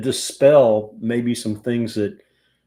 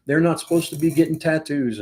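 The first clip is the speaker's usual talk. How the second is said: higher, louder mock panic from worried teachers; teachers freaking out; 5 semitones higher, 4 dB louder, faster than usual. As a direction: play the fretting teacher, raised and alarmed. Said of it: "freaking out".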